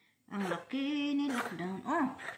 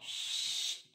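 unvoiced hushing shh; library whisper; 4 dB quieter than usual. Real, not acted. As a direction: hush them in a whisper. Hushing the other speaker.

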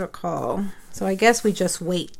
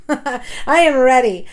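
laughing it out, a bit louder; 5 dB louder than usual. Real, not acted. Vlogger to her viewers, laughing with relief.

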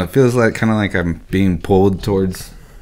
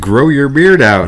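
slow, higher ad-style voice; mock ad voice; 6 semitones higher, 5 dB louder, slower than usual. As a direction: read it like a cheesy ad. Mocking the ad again.

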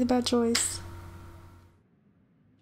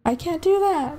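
louder, distressed refusal; real distress; 3 semitones higher, 5 dB louder than usual. Real, not acted. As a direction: refuse in shocked dismay, voice raised. Distressed at friend's in-game request.

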